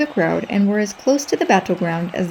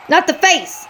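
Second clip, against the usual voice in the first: pleading; 7 semitones higher than usual. Acted.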